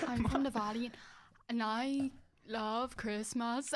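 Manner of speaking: put-on very slow drawn-out Welsh accent. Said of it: "Bonus points for best Welsh accent".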